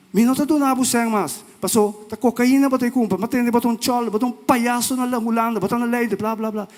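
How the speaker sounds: high, loud heated retort; heated quote. Retold or imitated. Retells a heated argument with her. (réplica acalorada, alta e aguda)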